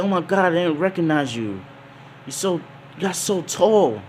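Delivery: high, excited woman's voice; Makino's surprise. Acted. Barmaid spotting her grown-up friend, high and delighted. Barmaid marvels at his height.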